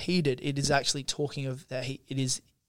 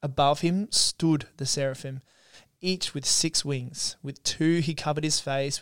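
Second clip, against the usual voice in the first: Scripture reading. Acted. Co-host reads Isaiah's temple vision to listeners, measured Scripture reading. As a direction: read it out with deliberate pauses.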